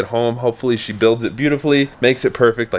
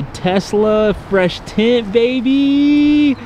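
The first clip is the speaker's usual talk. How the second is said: hype shout; 11 semitones higher, much slower than usual. Real, not acted. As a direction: belt it out in celebration. Hyping friend's tinted Tesla.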